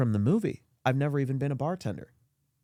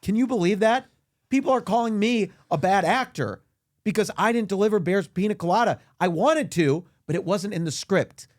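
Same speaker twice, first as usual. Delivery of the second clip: mild indignation; 6 semitones higher, 3 dB louder than usual. Acted. Indignant actor rant.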